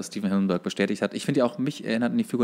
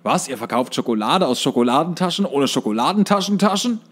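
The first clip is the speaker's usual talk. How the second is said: louder, mock-outraged salesman voice; louder mock con-artist outrage; pushy con man; 3 semitones higher, 5 dB louder than usual. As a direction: play the fast-talking swindler scolding the boys. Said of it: "so einem Typen abzocken".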